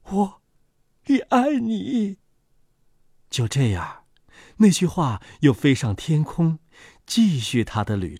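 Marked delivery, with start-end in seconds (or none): 0.1-2.2 smiling tenderness. A narrator's reading. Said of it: "脸上露出微笑".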